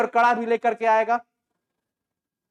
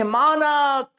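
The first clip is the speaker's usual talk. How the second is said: high, loud cry of a name; mother screaming for her son; shouting; 6 semitones higher, 4 dB louder, much slower than usual. Acted. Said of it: "चिल्ला रही है".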